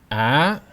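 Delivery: "Ah" pushed upward; rising tone. Shown as a demonstration. Teacher showing breath push, "Ah" rising. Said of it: "pushing more air out as you go higher".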